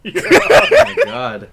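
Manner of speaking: very high, loud, slow laughing cry; real laughter. Real, not acted. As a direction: break up laughing through it. Laughing at the pimple story.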